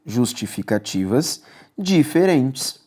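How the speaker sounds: spelled out slowly, each word weighed; slow deliberate answer. Shown as a demonstration. Teacher dictating the answer to exam students, slow and deliberate. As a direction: write the answer slowly on the board. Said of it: "você pode falar que são justificativas".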